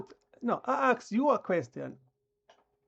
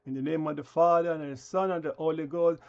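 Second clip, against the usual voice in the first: lower, quick mock blessing; mock prayer; 5 semitones lower than usual. Ridiculing churchgoers with a lower mock blessing.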